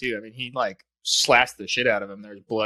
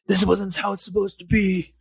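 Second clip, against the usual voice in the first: sheriff voice; 6 semitones higher, 3 dB louder than usual. Retold or imitated.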